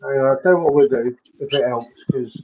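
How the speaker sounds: muffled, cutting-out call audio; underwater. Real, not acted. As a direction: sounds like speaking through water. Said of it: "a bit like you're talking underwater".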